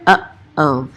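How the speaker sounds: "Uh-oh" with a clean catch in the throat between uh and oh; uh oh throat stop drill. Shown as a demonstration. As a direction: stop the air sharply after "Uh" before "oh". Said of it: "right between uh and o, you kinda stop".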